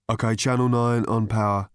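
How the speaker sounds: lightly voiced stage technician; crisp call over the speaker channel. Stage technician testing channels, brisk radio call.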